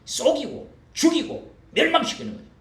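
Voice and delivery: loud, high, punching 죽이고; preached emphasis. Shown as a demonstration. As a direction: lead the words loudly for repeating. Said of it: "따라합시다". (크게 외치듯 선창하기)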